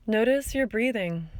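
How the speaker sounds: calm guiding voice with long pauses; guided meditation. Acted. Teacher guiding listeners through a body scan, calm meditation voice. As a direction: gently lead a body scan, leaving space between phrases.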